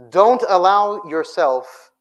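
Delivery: loud and slow, each word weighed; drawn-out loud command; slow emphatic. Real, not acted. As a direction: land every word like a warning. Preacher stresses key warning.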